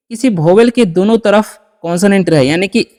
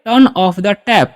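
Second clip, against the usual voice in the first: slow model sentence; much slower than usual. Shown as a demonstration. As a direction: Turn off the tap said very slowly, word by word. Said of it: "तो क्या बोलेंगे". (धीमे, साफ़ शब्दों में वाक्य)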